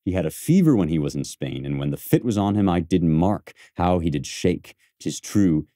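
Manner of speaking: reciting Cassius. Shown as a demonstration. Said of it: "He's saying".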